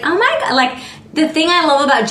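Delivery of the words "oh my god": put-on much higher, a child's thrilled "Oh my God"; excited gasp. Tarot reader imitating an excited Gemini. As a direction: squeal it like a kid on Christmas. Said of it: "And it's just like".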